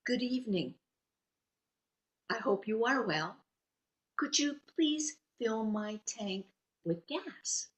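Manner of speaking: measured, deliberate polite request; word by careful word, like a language beginner; careful beginner speech. Retold or imitated. Customer trying the host language on gas attendant, careful and halting. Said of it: "which is preschool".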